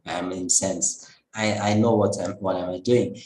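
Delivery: low, assured divine voice; composed, lightly acted authority; calm reassurance. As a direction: gently settle the worrier's doubts. Lord calmly reassures Brahma.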